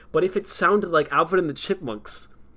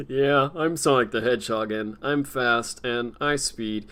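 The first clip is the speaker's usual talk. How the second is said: lightly lowered, slow Sonic impression; a hint of a slow, lower-pitched hedgehog. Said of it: "that's why it doesn't fit".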